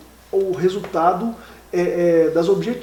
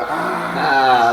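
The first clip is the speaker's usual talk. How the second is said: surprised; 5 semitones lower, 4 dB louder than usual. Retold or imitated. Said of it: "Aí eu falei".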